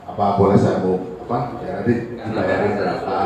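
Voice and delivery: low, soft, polite offer; softly spoken. Shown as a demonstration. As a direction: make a tentative, deferential offer. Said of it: "ngomongnya pelan-pelan ya".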